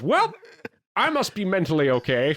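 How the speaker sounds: mock-cheerful high voice; high silly voice. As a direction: play him high and goofy. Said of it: "he goes".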